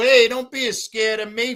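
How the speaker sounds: very high, loud, schoolyard bully taunting voice. Remembering schoolyard bullies from elementary and middle school, mock schoolyard-bully taunt. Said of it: "bullies in the schoolyard".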